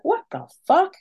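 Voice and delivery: sudden high disbelieving cry; shocked outburst. Retold or imitated. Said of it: "I was like".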